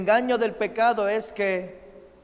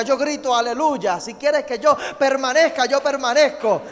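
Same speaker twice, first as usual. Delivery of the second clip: higher, louder, building surrender prayer; fervent preaching; 5 semitones higher, 5 dB louder than usual. Acted. Pastor voicing Saul's surrender to the Lord, fervent full-force prayer. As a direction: pour it out like a fervent altar call.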